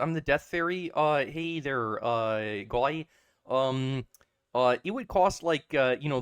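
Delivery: lightly hammed-up polite Canadian accent; hesitant, overly polite mock Canadian accent; terrible Canadian accent. Death fairy offers a patient an option, bad Canadian accent. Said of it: "Canadian accent, terrible".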